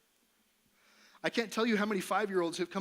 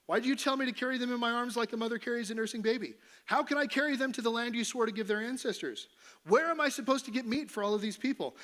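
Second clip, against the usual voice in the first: whiny complaint, pitched up and pushing; a servant crying out at God, a touch of whine; whining Moses; 6 semitones higher, 3 dB louder than usual. Acted. Moses complaining to the Lord, whiny and raised.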